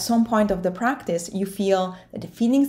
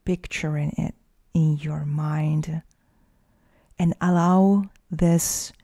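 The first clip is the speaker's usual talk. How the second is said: guided meditation. Acted. Coach leading listeners through facing their fear, guided meditation. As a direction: guide the listener inward, unhurried, leaving space to breathe.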